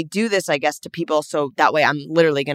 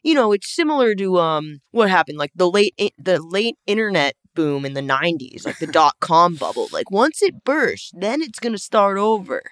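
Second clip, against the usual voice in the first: crypto bro. Pretend. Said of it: "do I sound like a crypto bro?".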